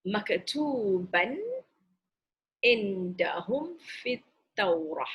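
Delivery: maktuban indahum fit Taurah drawn out slowly; تلاوة بطيئة; slow Quran recitation. Shown as a demonstration. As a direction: recite each Arabic word slowly and clearly. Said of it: "This is the word, maktub".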